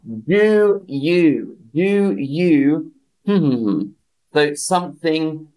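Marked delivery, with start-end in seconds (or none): 0.1-2.9 "Do you, do you?" sung out high and bright; playful "Do you". Shown as a demonstration. Teacher giving learners the phrase "Do you", high and playful. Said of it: "We say".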